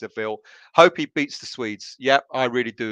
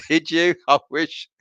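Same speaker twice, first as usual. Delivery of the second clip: normal talking voice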